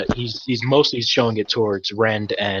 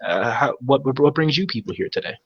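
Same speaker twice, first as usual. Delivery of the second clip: flustered, tripping over the words; an anxious man rushing to apologise; lightly voiced nervous dockmaster; stumbling over himself. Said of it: "he's, like, stumbling over himself".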